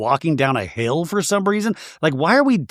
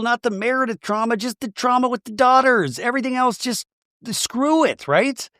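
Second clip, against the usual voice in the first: high-pitched mock-exasperated outburst; exasperated plea; 10 semitones higher than usual. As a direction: plead with her way up high. Host pleads with absent Brittany.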